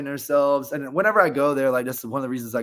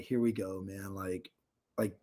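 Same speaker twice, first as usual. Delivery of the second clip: resigned low murmur; 6 semitones lower, 13 dB quieter than usual. Retold or imitated. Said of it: "He's like".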